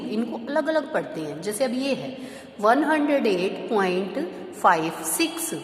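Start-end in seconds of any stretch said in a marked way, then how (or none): 2.6-5.5 slow demo. Shown as a demonstration. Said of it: "आप ऐसे नहीं बोलेंगे".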